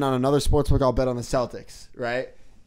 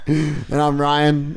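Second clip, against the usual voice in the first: laughing; 6 dB louder, much slower than usual. Real, not acted. Laughs while introducing himself.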